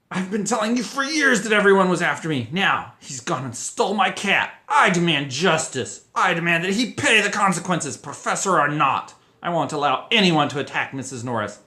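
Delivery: loud, high ranting demand; near scream. A narrator's reading. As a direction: scream it, close to tears. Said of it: "Filch practically screamed".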